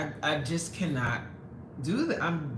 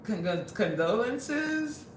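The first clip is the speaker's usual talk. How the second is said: slow, hesitant stammering condolence; awkward stammer; 3 semitones higher, slower than usual. Retold or imitated. Awkwardly answering a troll's sad chat message, stammering slowly. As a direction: stumble over it awkwardly, unsure. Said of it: "And I'm like".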